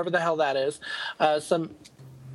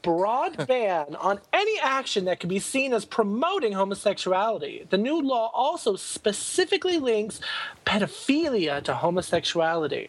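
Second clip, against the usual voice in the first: lively news item read with lifted emphasis. Real, not acted. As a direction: read the story aloud like a podcast newsreader. Reads out a news story.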